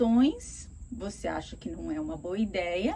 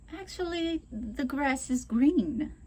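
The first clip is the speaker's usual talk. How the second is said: slow, gentle correction; unhurried and polite; calm; 4 semitones higher, slower than usual. Shown as a demonstration. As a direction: correct them without any heat. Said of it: "Na calma".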